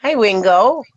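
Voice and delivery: high cooing sing-song; talking to a puppy. Real, not acted. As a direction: coo sweetly at a little dog.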